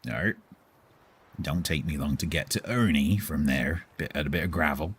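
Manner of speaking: gruff West Country grumble; West Country accent. Shown as a demonstration. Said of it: "drop into a bit of West Country".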